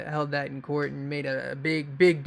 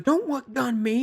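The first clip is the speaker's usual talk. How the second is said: higher, slow, irritated cop line; pissed cop; 7 semitones higher, slower than usual. Retold or imitated. Pissed cop scolding the kid about the gun, slow and annoyed. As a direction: throw his words back at him, annoyed. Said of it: "it was very pissed".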